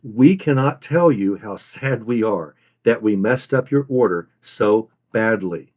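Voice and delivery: slow, heavy emphasis on each phrase; slow and deliberate; scripted regret. Shown as a demonstration. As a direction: deliver the regret slowly, phrase by phrase. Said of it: "This is the most important point in your call".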